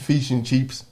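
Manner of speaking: lightly put-on foreign accent; faint West African accent. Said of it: "Say it again".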